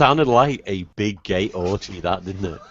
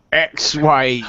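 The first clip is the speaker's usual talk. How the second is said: normal talking voice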